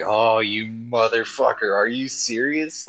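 indignant disbelief. Retold or imitated. Retelling her reaction to the villain, indignant disbelief. Retold outraged reaction to film scene.

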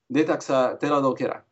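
a quick run of alien syllables; rattled off quickly. Shown as a demonstration. Language consultant showing off an alien sentence, rattled off quickly. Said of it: "you rattled that off really quick".

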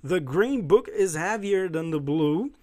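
slow, careful reading of the English sentence; slow model reading. Shown as a demonstration. Teacher reading an example for students to practise, slow and careful. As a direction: read it out slowly so students can repeat. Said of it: "Olha só as frases aí pra você treinar".

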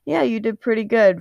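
ordinary delivery

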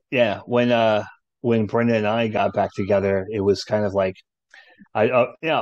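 ordinary talk

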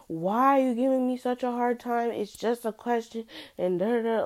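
high, mocking imitation of the pushy asker; exasperated mock voice of the person prodding her. Mimicking the person pestering her.

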